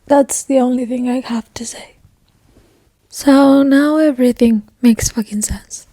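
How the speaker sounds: hushed, stunned whisper; stunned whispering after a sad chapter. Real, not acted. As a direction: whisper it, still reeling. Heartbroken after reading.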